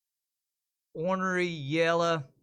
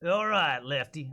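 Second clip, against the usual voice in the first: lawman take; 3 dB louder, slower than usual. Shown as a demonstration. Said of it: "I think I'm gonna go with all right".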